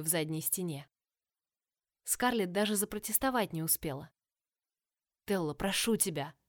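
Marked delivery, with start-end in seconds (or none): none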